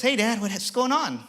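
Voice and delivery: high, drawn-out youngster's greeting; imitating his son. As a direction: play the son cheerily calling Dad. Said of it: "my son just happened to call me".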